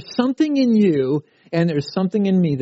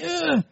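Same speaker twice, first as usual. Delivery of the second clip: mock child's cry; 13 semitones higher than usual. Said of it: "he's just screaming".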